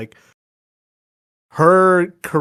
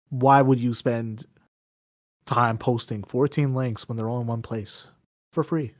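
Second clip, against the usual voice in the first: like an ad. Pretend. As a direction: sell it like a radio spot. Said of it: "Why did I say that like an ad?".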